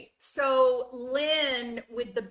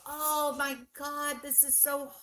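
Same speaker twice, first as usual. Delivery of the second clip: mock horror; 5 semitones higher than usual. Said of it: "you wanna go".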